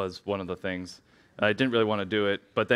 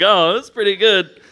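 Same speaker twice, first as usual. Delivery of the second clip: mildly impressed; 9 semitones higher, 11 dB louder than usual. Pretend. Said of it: "you're like".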